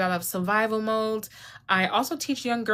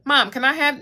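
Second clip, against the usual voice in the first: put-on child begging; 5 semitones higher, 6 dB louder than usual.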